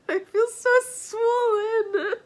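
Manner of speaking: tearful, slow, choked with real tears; crying through a laugh after finishing a sad book. Real, not acted. After finishing a heartbreaking book, crying while talking to viewers. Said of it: "from crying".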